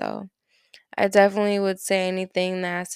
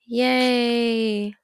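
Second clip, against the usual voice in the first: excited cheer; 3 semitones higher, 5 dB louder than usual. Pretend. Mock celebration cheer.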